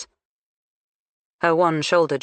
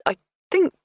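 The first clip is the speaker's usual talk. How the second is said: timid hesitant suggestion; unsure, voice thin and high; weakly; 5 semitones higher than usual. Acted. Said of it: "Duncan suggested weakly".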